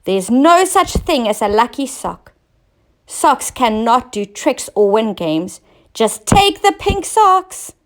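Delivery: loud, bossy scolding; queen scolding the king about lucky socks; quarrelsome scolding. Acted. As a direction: lecture him like a cross queen. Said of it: "she quarreled".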